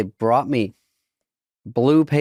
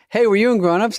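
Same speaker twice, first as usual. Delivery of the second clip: higher-pitched fan accosting a celebrity; eager mock fan voice, pitched up; excited fan; 10 semitones higher, 3 dB louder than usual. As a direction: imitate a stranger calling out a question. Acts out airport fan approaching.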